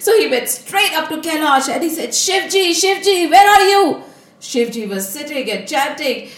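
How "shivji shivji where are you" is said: high, eager call for someone. Acted. Narad Muni searches Kailash for Shivji, calling out eagerly. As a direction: call out excitedly, louder on the second try.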